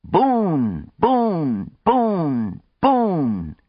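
high crowd chant, each cry falling away; cheering yell. A narrator's reading. Whole crowd cheering and yelling for him, high drawn-out cheer. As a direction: cheer the name over and over. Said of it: "everyone was cheering and yelling".

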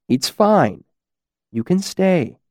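soft. Acted. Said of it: "Elodin said softly".

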